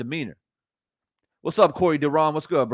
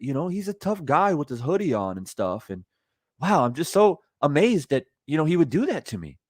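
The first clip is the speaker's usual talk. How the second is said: mock nice guy. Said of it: "you tell it in a way as if".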